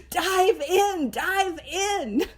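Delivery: urgent urging. Acted. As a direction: urge the dawdler to plunge in. Book's urgent answer to the dawdler.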